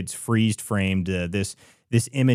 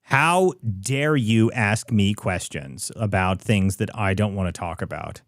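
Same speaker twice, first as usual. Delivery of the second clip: mock outrage. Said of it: "what Spamberger does".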